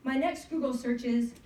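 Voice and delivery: measured spoken-word poem with pauses; poem recitation. Acted. Poet reading to an audience on National Poetry Day, performed recitation. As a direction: read it out as a narrative poem. Reads their own narrative poem.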